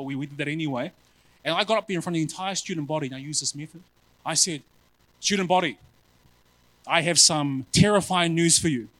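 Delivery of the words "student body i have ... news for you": mock ominous announcement. Preaching to student body.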